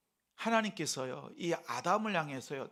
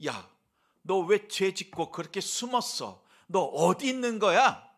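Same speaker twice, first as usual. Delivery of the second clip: loud, high scolding outburst at a hidden sinner; acted angry shout, demanding an answer; rebuking God; 4 semitones higher, 11 dB louder than usual. Preacher imagines God scolding Adam for hiding, angry rebuke. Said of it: "이렇게 책망하시는 말씀입니까".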